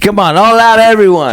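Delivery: high, far-off New York gym coach barking at the class; New York trainer yelling. Retold or imitated. Friends joking, gym coach yelling in New York accent. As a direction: bark orders like a Jersey trainer. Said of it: "She sounded like Tony Soprano".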